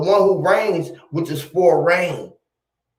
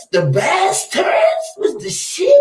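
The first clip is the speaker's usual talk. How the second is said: much higher, slow, words breaking with laughter; laughing while talking; slower than usual. Real, not acted. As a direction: say it while cracking up. Cracking up at the joke.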